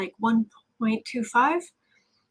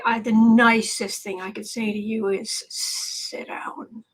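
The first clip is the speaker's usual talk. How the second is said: restrained contempt. Real, not acted. Scornful aside about Dershowitz.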